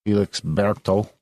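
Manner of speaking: put-on name said with a light Spanish accent, a little slow. Host reading a listener's name off a postcard, light Spanish accent. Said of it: "I said that with a Spanish accent".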